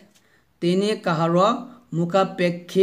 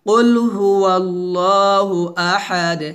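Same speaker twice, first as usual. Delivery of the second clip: Quran recitation demo. Shown as a demonstration. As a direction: recite it as a teacher models for students. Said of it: "আবার".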